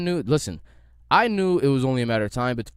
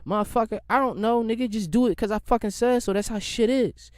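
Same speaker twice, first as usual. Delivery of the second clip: mock old head; 6 semitones higher than usual. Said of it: "they're like".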